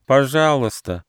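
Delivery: high, drawn-out plea; pleading turtle. A narrator's reading. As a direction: beg slowly in a turtle's voice. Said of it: "попросила черепаха".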